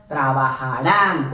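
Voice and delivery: trabajarán stressed on its final á. Shown as a demonstration. Teacher showing the ustedes ending, trabajarán stressed on rán. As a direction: put the weight on the rán of trabajarán. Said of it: "con acento al final en la A".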